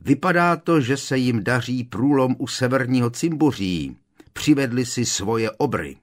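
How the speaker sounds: urgent shouted report, starting high and loud; calling out. Acted. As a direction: call the battle news to those around. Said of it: "v čele skupinky studentů a volal".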